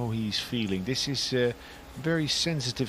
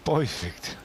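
New Jersey accent. Shown as a demonstration. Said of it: "a New Jersey accent".

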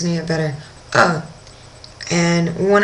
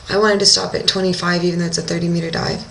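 normal talking voice

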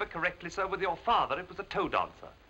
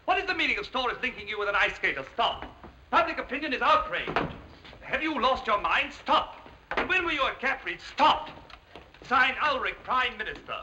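reading a telegram; 2 semitones higher than usual. Acted. Butler reads the Prime Minister's telegram to his employer, formal read-aloud. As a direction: read out formally, each Stop set apart.

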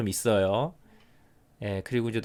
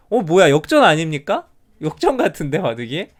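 surprised; 3 semitones higher, 7 dB louder than usual. Real, not acted. Realizes the game has reversed.

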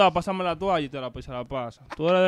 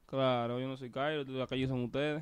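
mumbled character voice; 3 semitones lower, 6 dB quieter than usual. Acted. Character speaks barely audible.

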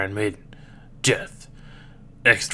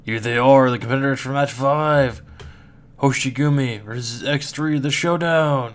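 booming fighting game announcer; 4 dB louder than usual. Acted. Arena announcer introduces match five.

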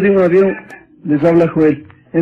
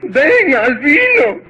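higher pleading call with a laugh; pleading mother; 4 semitones higher, slower than usual. Acted. Mother begs son Albino to come home, higher plea. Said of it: "la madre suplicó".

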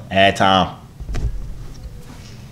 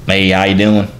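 put-on country-accent greeting, punched a little louder; 5 dB louder than usual. Greeting a stranger on video chat, in country accent. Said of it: "let me do a break from the accent".

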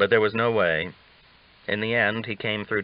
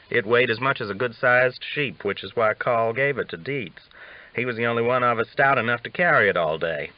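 lightly voiced old ranger, higher and amused; a hint of a cocky old cowhand spinning a yarn; Augustus, teasing; 3 semitones higher than usual.

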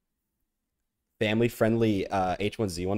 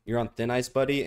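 "You're on thin ice, buddy" said louder with a teasing rise on "buddy"; playful taunt; 2 semitones higher, 4 dB louder than usual. Shown as a demonstration. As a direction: tease them with a grin, louder. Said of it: "is my favorite one".

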